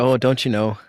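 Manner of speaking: lightly imitated Minnesotan accent. Illustrating how America portrays Canadians, mock Minnesotan accent. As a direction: put on a folksy Minnesotan accent with long o's. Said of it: "feel like a Minnesotan accent".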